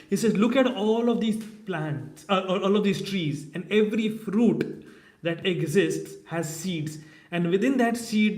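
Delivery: the cobbler passionately telling Narada how great the Lord is; fervent conviction. Acted. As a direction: preach his wonder with rising fervour. Cobbler fervently defends his faith.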